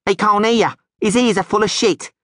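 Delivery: a hint of a jeering sidekick; mocking thug. Crony mocks the silent stranger, jeering. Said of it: "said one of the men".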